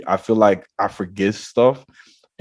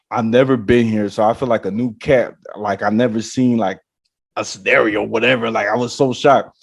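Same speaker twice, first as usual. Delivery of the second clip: usual speaking voice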